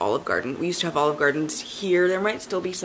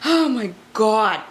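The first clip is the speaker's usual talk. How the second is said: awed gasp; 3 semitones higher, 4 dB louder, slower than usual. Real, not acted. Gasps at collection.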